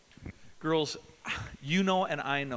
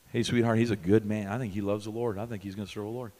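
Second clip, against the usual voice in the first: reassuring approval; 6 semitones lower, faster than usual. Pretend. Pastor approves a girl's suitor, low and reassuring. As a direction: gently tell her he's fine. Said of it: "I'll tell you the truth".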